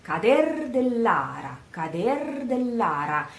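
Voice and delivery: "cader dell'ara" with the final R of cader sounded, the R of ara lighter; careful Rs. Shown as a demonstration. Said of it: "these R's are very important".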